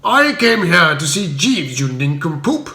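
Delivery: a hint of Spode's scorn, lightly voiced; mild insult. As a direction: sneer at the fool. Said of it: "uttered him".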